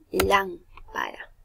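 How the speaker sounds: "lámpara" with LÁM drawn out; slow "lámpara", first syllable held; stress on first syllable. Shown as a demonstration. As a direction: lean slowly on the LÁM of "lámpara". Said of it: "tilde porque es una esdrújula".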